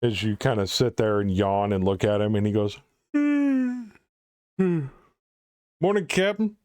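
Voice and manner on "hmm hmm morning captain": high, drowsy sailor greeting; sleepy crewman Larry. Acted. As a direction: mumble it like a tired deckhand. GM voices Larry waking.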